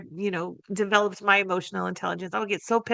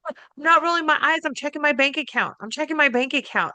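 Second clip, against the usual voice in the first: put-on cheeky kid covering an eye roll; teen son's excuse; 6 semitones higher than usual. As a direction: son dodging mom's anger, high playful teen voice. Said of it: "He'd go".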